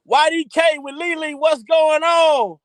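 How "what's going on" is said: slow, stretched call to the chat; drawn-out shout-out. Real, not acted. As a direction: stretch it out like a hype greeting. Calling out to the chat.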